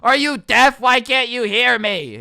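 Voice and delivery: put-on an old man losing it at the drive-thru window; angry shout. Old man shouts at the drive-thru worker, furious and loud. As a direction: yell it high and loud, furious at the speaker box. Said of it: "slowly getting angrier and angrier".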